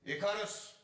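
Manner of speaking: grand tragic actor calling out; lofty theatrical call; classical stage declamation. Acted. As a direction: proclaim the name like an ancient Greek drama. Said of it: "repertuarlarda böyle geçiliyor".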